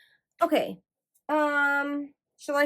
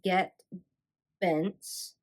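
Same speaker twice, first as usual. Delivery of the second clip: carefully separated words; slow and careful. Real, not acted. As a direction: pick through the name one word at a time. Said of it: "I have to say it slow".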